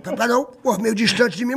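normal talking voice

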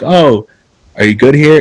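imitating a proper fitting-room check; polite staff check-in. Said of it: "we ask, 'Oh".

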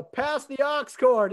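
slow, drawn out suggestive line; deadpan request. Retold or imitated. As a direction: say it slow and cheeky. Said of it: "And I go".

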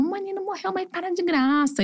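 high, softened mock dismissal; imitated dismissive father. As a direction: mimic a dad brushing it off in a high voice. Pai impaciente imitado no relato. (imitando o pai, agudo e com desdém)

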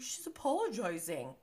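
breathy whisper; whispered aside. Retold or imitated. Recapper mimics Schwartz whispering to the group. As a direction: lean in and whisper it.

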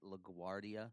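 LaGuardia said the West Virginia way, with a drawn-out ending; West Virginia accent. Shown as a demonstration. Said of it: "I guess that's my West Virginia accent".

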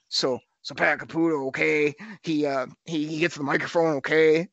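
half-hearted imitation of a rambling radio host; a hint of a radio host grabbing the mic; Pat Caputo impression. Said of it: "That's probably a terrible impression".

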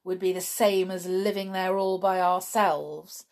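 put-on scornful girl rejecting a hopeful suggestion. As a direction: sneer at the very thought. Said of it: "said George scornfully".

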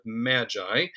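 Magi said as MAD-jai; church-style pronunciation. Shown as a demonstration. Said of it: "quick word about the pronunciation".

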